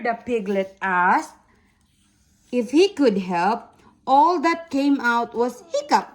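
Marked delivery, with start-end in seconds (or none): 4.1-6.1 hiccup sound. Shown as a demonstration. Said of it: "Like that".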